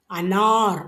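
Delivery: அனார் with the second vowel stretched long; அனார் as a slow model pronunciation; drawn-out vowel. Shown as a demonstration. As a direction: stretch the நா in அனார், ending on a light r. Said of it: "உச்சரிப்பு இழுத்துக்கணும்".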